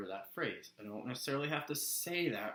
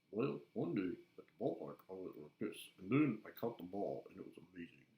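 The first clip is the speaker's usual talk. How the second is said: different character voice; 2 semitones lower than usual. Shown as a demonstration. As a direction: tell the ballpark tale in a lightly altered voice. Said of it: "just go like this".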